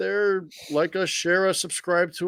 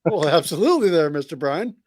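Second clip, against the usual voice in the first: mock Western drawl; 3 dB louder than usual. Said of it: "you just sound Western".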